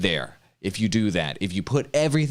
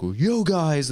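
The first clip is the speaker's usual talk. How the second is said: mock hype greeting; 6 semitones higher than usual. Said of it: "they're like".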